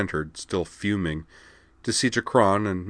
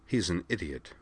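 musing to herself; 6 dB quieter than usual. A narrator's reading. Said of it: "she mused to herself".

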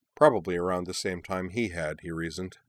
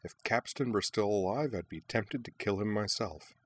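muttered through teeth; 6 dB quieter than usual. Acted. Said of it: "she muttered through her teeth".

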